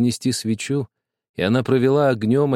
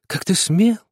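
angry shout, rising; 7 semitones higher than usual. A narrator's reading. Sister repeats the reproach to the boy, outraged rise. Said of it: "закричала она".

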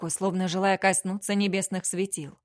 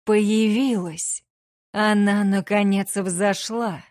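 louder, rising excitement; excited; 5 dB louder, slower than usual. A narrator's reading. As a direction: burst out with sudden joy. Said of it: "вспыхнуло волнение".

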